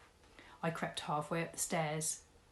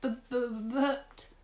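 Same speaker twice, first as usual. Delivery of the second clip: higher, stammering squeak; 7 semitones higher, 4 dB louder, slower than usual. Acted. Mister Tugg squeaking as he's caught. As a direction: stutter it out.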